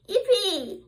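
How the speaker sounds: high laughing whoop; joyful shout. Acted. Little squirrel riding Daddy's shoulders, joyful whoop. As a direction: cheer with a laugh. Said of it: "he shouted".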